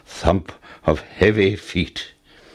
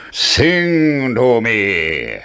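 giant's roar; much slower than usual. Acted. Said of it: "roared the giant".

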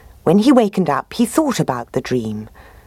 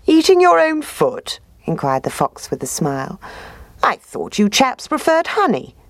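high, smooth sly fox; higher voice for the sly fox; 7 semitones higher than usual. Acted.

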